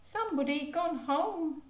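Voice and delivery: put-on high toddler voice; baby voice. Baby saying the visitor went home, high toddler voice. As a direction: babble it like a little child.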